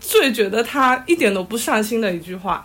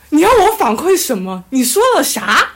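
incredulous inner retort; 4 semitones higher, 6 dB louder than usual. Retold or imitated. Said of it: "我心想".

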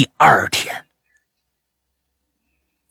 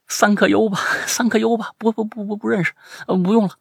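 nervous polite refusal; 6 semitones higher, faster than usual. Retold or imitated.

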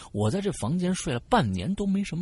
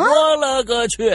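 shocked exclamation; 9 semitones higher, 9 dB louder, slower than usual. Acted. Shocked at punching himself.

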